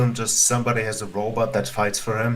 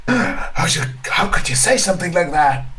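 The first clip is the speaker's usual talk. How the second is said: higher, louder hammed-up disbelief; mock outrage; 7 semitones higher, 5 dB louder than usual. Friend defending JoJo from streamer, mock outraged disbelief. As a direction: play it as scandalised shock.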